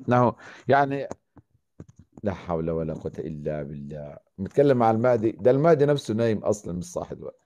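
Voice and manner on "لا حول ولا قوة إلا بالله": whisper yelling. Acted. Very soft muttered.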